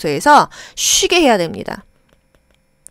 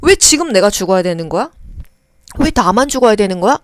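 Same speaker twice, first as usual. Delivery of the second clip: angry patient. Acted. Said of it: "분노가 차죠".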